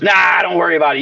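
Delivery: fast, shouted brush-off; dismissive boss. Retold or imitated.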